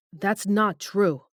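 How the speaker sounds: roar. Acted. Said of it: "like a roar".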